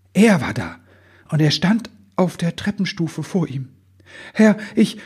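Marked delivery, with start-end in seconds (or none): 4.3-5.0 high, timid little elf voice; stammering. A narrator's reading. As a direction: falter nervously, pitched way up. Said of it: "stotterte Ribbelwitsch". (ängstlich stotternd, mit hoher Stimme)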